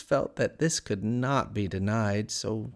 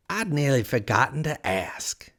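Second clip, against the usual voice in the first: higher, whispery cat voice; casual Cheshire Cat; 4 semitones higher than usual. A narrator's reading. Cat remembering to ask Alice, higher and whispery. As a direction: breathe it out as an afterthought.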